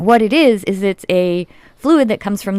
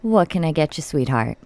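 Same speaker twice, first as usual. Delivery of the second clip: lightly voiced diner waitress, low; a hint of a smoky waitress; 4 semitones lower, 3 dB quieter than usual. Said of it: "Walk around with a pack of Camels and ask me what I'm having".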